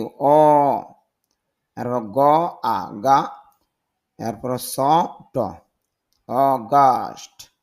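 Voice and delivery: অগাস্ট broken into অ, গা, স, ট, then said slowly; sound by sound. Shown as a demonstration. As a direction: spell out অগাস্ট one sound at a time. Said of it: "উচ্চারণটা হবে কি?". (অগাস্ট ধ্বনি ধরে ধরে, ধীরে বলুন)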